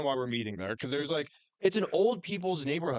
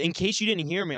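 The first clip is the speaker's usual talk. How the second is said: raised, pointed voice for someone hard of hearing; mock yell, pitched up; getting louder; 4 semitones higher than usual. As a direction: insist so the listener hears this time. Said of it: "I got louder".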